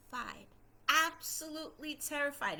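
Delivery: hushed, whispered recollection of terror; terrified. Retold or imitated. Storyteller recalling her fear of Papa, terrified whisper. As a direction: drop into a dramatic whisper.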